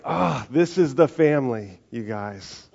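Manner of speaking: Paul excitedly telling the church it is one family. Retold or imitated. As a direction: announce it with joy like Paul. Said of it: "you see Paul going like".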